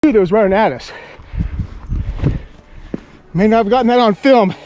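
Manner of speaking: buzzing after a close call; adrenaline rush. Real, not acted. Just escaped charging grizzlies.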